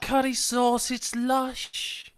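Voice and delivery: hammed-up Welsh relish; mock Welsh accent. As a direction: put on a jokey Welsh accent. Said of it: "Fuck the Welsh".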